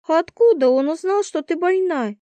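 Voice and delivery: high, startled question; can't believe what she hears; alarmed surprise. A narrator's reading. Roommate learns he knows about illness, alarmed.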